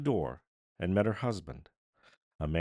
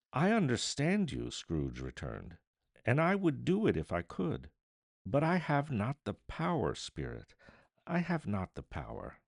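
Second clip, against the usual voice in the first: agonized; 4 semitones higher than usual. Acted. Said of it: "quite agonized".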